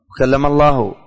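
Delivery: "الله" ending clearly in "u", as Allahu; final damma. Shown as a demonstration. Teacher showing students how to read it, "الله" ending in -u. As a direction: say "الله" with the nominative -u vowel. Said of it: "الرفع والضم".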